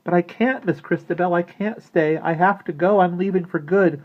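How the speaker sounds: put-on high, loud, earnest girl's voice; emotional outburst. A narrator's reading. Maggie bids the living dolls goodbye, high overjoyed outburst. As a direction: pour it out overwhelmed and glad.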